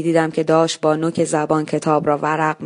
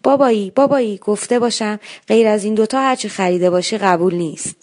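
lightly voiced young daughter, higher; a small girl listing her favourite treats; a hint of a pleading little girl; childish little girl's voice; 5 semitones higher than usual.

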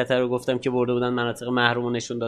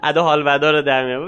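lightly voiced sneering listener; a snide onlooker scoffing at his accent; a hint of a scornful critic; mocking critic; 3 semitones higher, 4 dB louder than usual. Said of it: "اینجوری میگه".

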